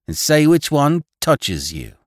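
put-on girl daring the conductor to choose; eager teasing. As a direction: egg him on with a teasing challenge. Girls teasing, urging him on.

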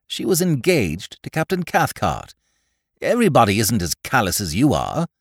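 a grand duchess fretting loftily; imperious plummy grande dame. Acted. Duchess rebukes Wimsey.

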